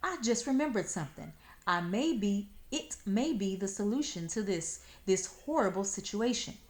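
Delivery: fast and high; excited rush. Acted. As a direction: rush it out eagerly. Fox excited, rushed.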